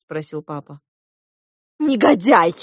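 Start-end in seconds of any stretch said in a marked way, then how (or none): 1.8-2.5 loud, higher insult; scolding. A narrator's reading. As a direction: throw the insult at him. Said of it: "продолжала ругаться Диана". (громко ругаясь)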